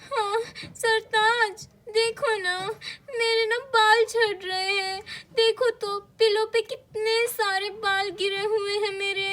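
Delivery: distressed mama. Acted. Wife pleading with husband Sartaj about hair loss, distressed. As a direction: drag out Sartaj's name, upset.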